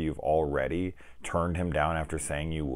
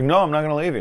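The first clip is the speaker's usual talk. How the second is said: high, louder imitated refusal; mock protest; 10 semitones higher, 7 dB louder, much faster than usual. Girl refusing to leave her rescuer, high mock protest. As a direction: imitate a heroine's insistent protest, pitched up.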